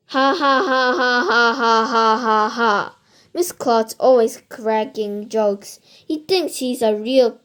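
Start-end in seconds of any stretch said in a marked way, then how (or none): 0.1-3.0 spelled-out "ha ha" laugh sliding down in pitch; principal's forced laugh. Acted. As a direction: laugh hard at your own bad joke. Principal laughs at his own joke.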